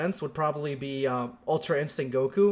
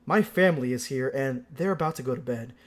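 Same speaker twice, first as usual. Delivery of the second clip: end of video voice. Shown as a demonstration. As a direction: read it like a video outro. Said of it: "I'm gonna read it like end of, end of video".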